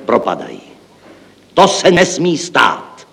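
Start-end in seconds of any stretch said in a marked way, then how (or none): 1.5-3.1 slow, higher and loud alarmed cry; exclaimed. A narrator's reading. Chief accountant to the director, a slow alarmed exclamation. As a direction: cry out that it must not happen. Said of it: "zvolal hlavní účetní".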